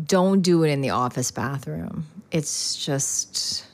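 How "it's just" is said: whispered aside. Real, not acted. Confiding aside.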